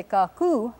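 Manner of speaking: "Kaku" accented on the final ku; second-syllable stress. Shown as a demonstration. Lecturer showing how you call grandmother, stress on second syllable. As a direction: lean on the ku of "Kaku". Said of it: "with the accent on the second syllable".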